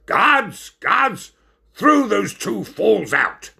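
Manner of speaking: high, urgent shouted order; shouting. Acted. Ringmaster ordering Tapir and Stoat thrown out, shouting. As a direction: shout for the guards, pitched high. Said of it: "And then he shouted".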